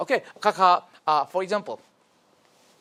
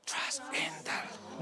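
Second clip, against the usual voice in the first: "Trust in the Lord" breathed without voice; whisper; 16 dB quieter than usual. Shown as a demonstration. Teacher leading a whispered reading, whisper.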